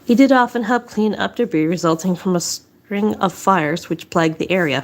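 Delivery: breathless, short of air; out of breath. Real, not acted. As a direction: read it slightly winded. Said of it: "Sorry, I'm out of breath today".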